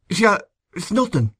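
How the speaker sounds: high, thick-tongued attempt to dismiss it; thick speech. A narrator's reading. Injured man reassuring his friend, speaking thickly. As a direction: wave it away with thickened words. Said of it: "He spoke very thickly".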